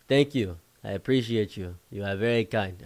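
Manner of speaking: imitated African friend's accent. African friend thanking his host after an invitation, African accent. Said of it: "My African friend explained to me".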